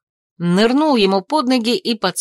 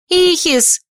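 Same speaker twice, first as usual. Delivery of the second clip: high, loud call of a name; cry out; 9 semitones higher, 4 dB louder than usual. A narrator's reading. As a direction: shout the name out loud and sharp. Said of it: "вскрикнула я".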